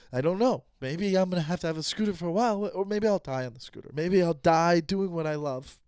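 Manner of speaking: playing it as a tearful confession, lightly; understated fake emotional monologue; mock emotional scene. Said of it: "if you wanna see my acting skills".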